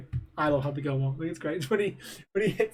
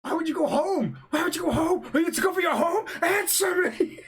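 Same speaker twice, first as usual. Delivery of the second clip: higher, mock yelled interrogation; mock angry yell; 10 semitones higher than usual. Friend reenacts the clown scene, mock angry yell. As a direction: bark it like the movie villain. Acting movie villain shouting.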